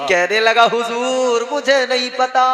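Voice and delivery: loud, ringing sermon storytelling; full-voiced preacher narration; preaching. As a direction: preach the tale out to the crowd.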